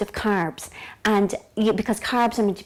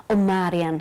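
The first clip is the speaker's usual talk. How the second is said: lightly imitated Lithuanian accent, lower pitch; Vilma; 4 semitones lower, 5 dB louder than usual. Naturopath addressing Marian, lightly imitated Lithuanian accent. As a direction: put on a hint of Lithuanian, pitched down. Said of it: "'cause that's the way she speaks".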